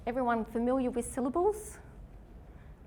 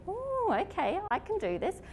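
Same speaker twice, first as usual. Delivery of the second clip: mock relief; 12 semitones higher than usual. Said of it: "if you think".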